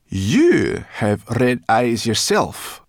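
slow, loud accusing growl; growling brownie. A narrator's reading. Brownie accuses homunculus of red eyes, growling. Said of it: "growled Sorrel".

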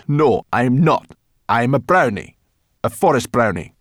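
loud, high, affronted brownie; emphatic, offended little creature; indignant. Acted. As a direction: correct them with wounded pride. Indignant brownie corrects the children.

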